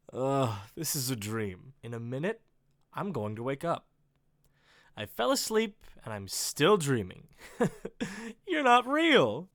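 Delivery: dazed, half-laughing denial; laughing disbelief. Acted. Writer tells the gunman he is only dreaming, laughing. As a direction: chuckle it off as a dream. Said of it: "laughs, closes his eyes tightly".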